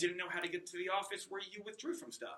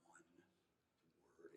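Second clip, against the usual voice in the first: near tears; 9 semitones lower, 27 dB quieter than usual. Retold or imitated. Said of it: "she's almost about to cry".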